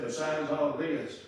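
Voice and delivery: low, soft, grave patriarch; quiet deep stern rebuke; Abraham's voice. Acted. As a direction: speak low and solemn as Father Abraham. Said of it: "He said".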